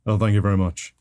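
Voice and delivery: put-on rock-and-roll star voice; a singer. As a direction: answer as the singer would. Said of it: "I find myself talking like him".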